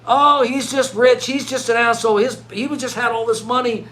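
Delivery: mocking the doubters. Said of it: "People all know he's just".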